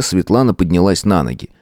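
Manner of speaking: usual speaking voice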